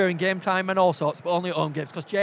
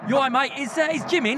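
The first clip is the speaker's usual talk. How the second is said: put-on poor Cockney accent; 5 semitones higher than usual. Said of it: "Excuse the poor Cockney accents".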